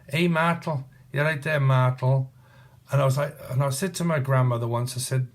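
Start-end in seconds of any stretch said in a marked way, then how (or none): 0.1-2.3 "Martel" said for Michael, mɑɹtəl; grandmother's northern "Martel" for "Michael"; imitating nan's Martel. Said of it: "my grandmother used to pronounce Michael as Martel".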